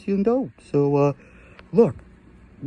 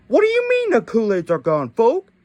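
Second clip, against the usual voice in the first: put-on indignant kid voice; 4 semitones higher than usual. Kid character protests missing Kool-Aid.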